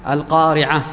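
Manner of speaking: القارعة with a breathed h ending; final h when pausing. Shown as a demonstration. Teacher repeating the pausal form, القارعة ending in h. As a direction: pause on القارعة, turning its last letter into h. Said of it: "بالهاء".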